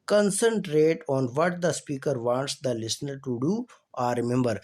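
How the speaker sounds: slow, careful reading of a definition; reading aloud. Acted. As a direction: read each word out clearly for the class. Reads English list slowly.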